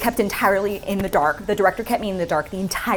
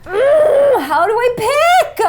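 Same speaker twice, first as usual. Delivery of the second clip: very high, loud drawn-out whine; comic anguish; 9 dB louder, much slower than usual. Real, not acted. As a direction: wail helplessly over an impossible choice. Agonizing over picking favorites.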